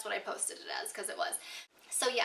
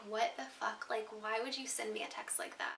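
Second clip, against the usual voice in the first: muttered disbelief; 6 dB quieter than usual. Retold or imitated. Reacting to a rude text.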